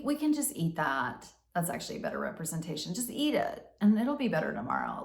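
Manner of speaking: a hint of coaxing. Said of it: "the rescuer voice is my addictive voice".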